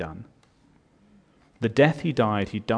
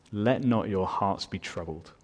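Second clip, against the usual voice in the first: tender quiet reassurance; 3 semitones lower, 5 dB quieter than usual. Acted. Soft, tender repeat of the verse.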